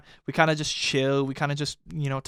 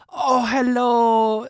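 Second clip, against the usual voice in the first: imitating the lady; 6 semitones higher, much slower than usual. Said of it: "she goes".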